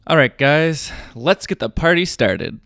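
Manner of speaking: loud, pumped party kickoff; hyped announcer. Acted. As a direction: get the crowd going. Hype start.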